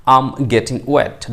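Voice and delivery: very slow, each word spaced; slow model phrase. Shown as a demonstration. Teacher repeating the phrase for learners, very slow. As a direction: say it slowly for students to copy. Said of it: "বলবেন".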